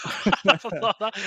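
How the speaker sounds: laughing, high and loud; real laughter. Real, not acted. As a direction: talk through the giggles. Laughing at the prank story.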